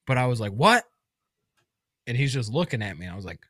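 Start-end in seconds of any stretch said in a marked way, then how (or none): 0.5-0.8 louder, higher questioning yell; retold yelling. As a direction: call it out like you can't hear. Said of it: "I'm, like, yelling".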